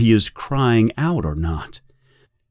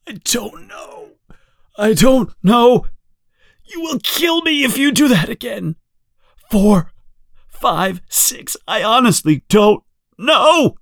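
broken desperate plea; 11 semitones higher than usual. Acted. Winston breaking under torture.

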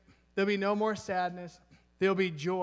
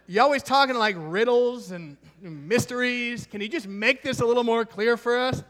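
mock exasperated plea; 2 semitones higher, 4 dB louder than usual. Thomas pleading with Jesus, mock.

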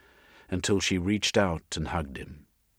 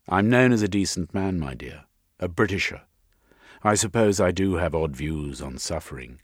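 firm, lightly voiced gentleman, louder; self-important gentleman; 6 dB louder than usual. Jeremy defending his character to Missus, mildly blustering. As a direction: declare your own decency with mild bluster.

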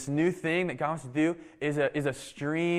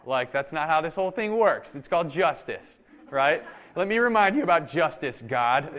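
louder, a touch of mock outrage at God; indignant protest; 2 semitones higher, 4 dB louder than usual. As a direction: argue your case to God, half-laughing. Officer argues back at God.

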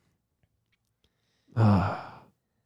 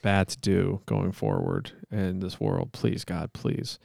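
measured, solemn monotone plea; earnest-sounding improvised prayer; mock prayer; 2 semitones lower than usual. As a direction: pray aloud with halting mock sincerity.

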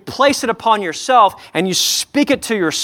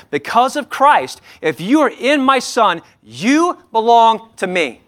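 voicing God the Father. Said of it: "which says over you".

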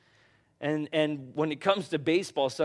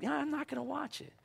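mock firm refusal; 10 semitones higher, 9 dB quieter, faster than usual. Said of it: "now I'm like".

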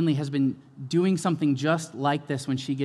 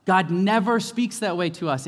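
full-force preaching; 4 semitones higher, 6 dB louder than usual. Acted.

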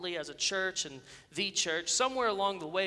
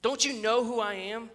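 higher and louder indignant demand; cross, indignant; 4 semitones higher, 5 dB louder than usual. A narrator's reading. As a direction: demand it with wounded self-importance. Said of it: "he said crossly".

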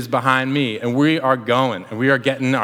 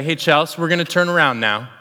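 calmly, evenly voiced. Husband telling his wife to turn the kayak, calm. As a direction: keep it casual so nobody panics. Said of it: "and I just calmly say".

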